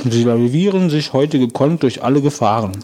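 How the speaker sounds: talking with mouth full; mouth full of goop. Real, not acted. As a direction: read it through a mouthful of cookie. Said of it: "die ekelt das an, was du jetzt hier gerade machst".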